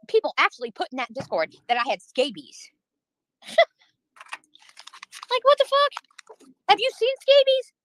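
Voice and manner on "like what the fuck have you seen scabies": high, slow squeal of disbelief; outraged disbelief. Real, not acted. Streamer outraged at chat's scabies rumour, incredulous high squeal. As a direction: stretch it out, way up high, appalled.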